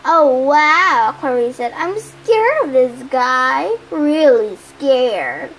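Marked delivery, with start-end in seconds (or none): 0.0-1.1 loud, mocking wow; jeering mock admiration; sarcastic awe. Taunting a foe with mock fear. 1.8-5.5 slow, drawn-out mock fright; jeering, exaggerated "so scared"; sarcastic fear. Taunting a foe with mock fear.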